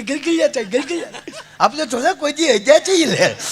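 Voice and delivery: high, giggling bride's voice; giggly bride. Retold or imitated. Bride giggling to the narrator about being ticklish. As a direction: giggle through the words.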